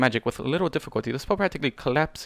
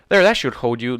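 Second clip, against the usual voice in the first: wheezing; 7 dB louder than usual. A narrator's reading. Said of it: "the unicorn wheezed".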